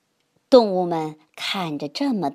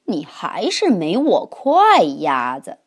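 whispering; 2 semitones lower, 4 dB louder, slower than usual. Acted. Horse's secret thought.

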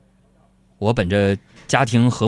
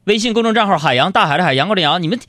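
higher, brisk coaxing of listeners; chirpy, cajoling appeal to listeners; coaxing host; 9 semitones higher than usual. Acted. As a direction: sweet-talk the audience like a radio host.

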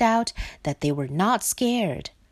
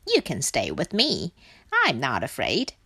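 a touch lower and composed; reassuring Duck; 6 semitones lower than usual. Acted. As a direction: lightly soothe in a low Duck voice. Duck reassures frightened Frog.

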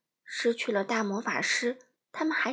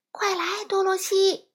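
urgent higher call to Dorothy; 8 semitones higher, 5 dB louder than usual. A narrator's reading. Wizard shouts to Dorothy from the balloon basket, urgent. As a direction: hurry her along with a raised voice. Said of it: "魔法师喊道".

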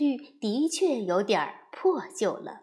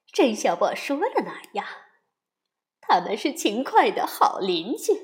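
cheerful; 4 dB louder than usual. Acted. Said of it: "熊妈妈却快活地说".

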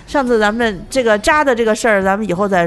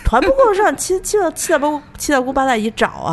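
mock threat; 5 semitones higher than usual.

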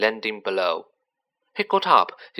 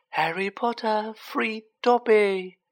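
high, slow, shrill elf voice; 10 semitones higher, slower than usual. A narrator's reading. Freed Dobby gazing up at Harry, shrilly. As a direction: pipe it out shrilly, drawing out words. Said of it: "said the elf shrilly".

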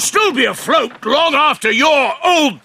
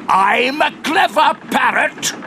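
coaxing. Shown as a demonstration.

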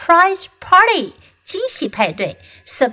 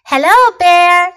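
Fox voice; 6 semitones higher, 8 dB louder than usual. Acted. Fox greets Bear in story.

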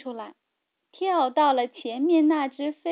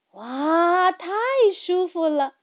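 cheerful cry; 4 semitones higher, 3 dB louder than usual. A narrator's reading. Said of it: "欢快地大叫着".

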